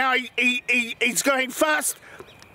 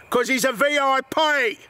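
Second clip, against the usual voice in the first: put-on English-accented police chief. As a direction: answer as an English police officer. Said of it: "English accent, got it, right".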